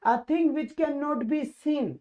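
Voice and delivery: very slow, word by word reading; deliberate teacher dictation pace. Shown as a demonstration. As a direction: spell the question out slowly for the class. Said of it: "re-reads question".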